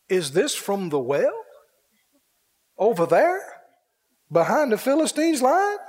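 incredulous king, each question rising; building amazed questions; astonished question. Acted. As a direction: ask in growing disbelief, voice climbing at the end.

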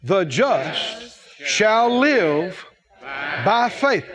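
slow, spaced-out phrases for joining in; leading recitation. Real, not acted. Preacher leading the congregation to say it with him, deliberate recitation. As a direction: lead the room word group by word group. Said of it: "Everybody say that last phrase out loud with me".

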